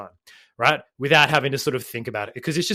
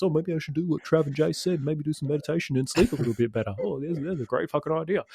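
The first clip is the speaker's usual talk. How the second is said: sarcastic inner voice. Retold or imitated.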